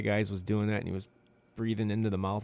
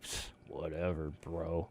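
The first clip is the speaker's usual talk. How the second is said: dismissive imitation; 5 semitones lower, 10 dB quieter, slower than usual. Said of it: "I was like".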